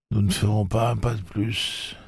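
put-on high firm old woman voice; a hint of a stubborn old woman; firm refusal. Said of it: "leur déclara Maud tout net".

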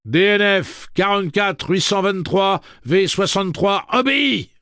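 high, loud mechanical robot. Acted. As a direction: command like a machine. Robot Andy speaking.

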